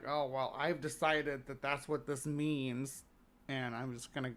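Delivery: quietly self-important pronouncement, imitated; mock pretentious. Teller imitating pretentious ghost hunter to the crew, mock pretentious. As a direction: softly mimic someone laying down gospel. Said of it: "I found them quite pretentious".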